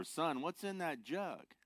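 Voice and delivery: high, slow stern cop; a lightly voiced lawman; policeman voice.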